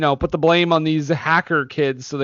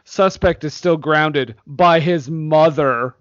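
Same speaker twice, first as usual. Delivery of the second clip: slow, condescending movie-agent quote; slower than usual. Retold or imitated. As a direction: imitate a condescending agent, drawing out each word. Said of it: "he says this so condescendingly".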